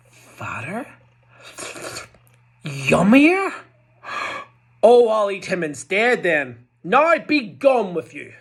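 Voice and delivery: high, loud greedy troll voice. Acted. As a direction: gloat like a hungry troll.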